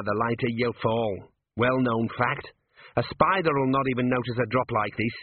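a hint of a breezy little gnome; lightly voiced cocky gnome. Gnome lecturing a hanging man on falling, lightly voiced and breezy. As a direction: lightly voice a gnome explaining with confidence. Voices wee Mad Arthur explaining.

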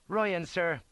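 high, loud report to an officer; saluting soldier. A narrator's reading. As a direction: announce yourself smartly to a superior.

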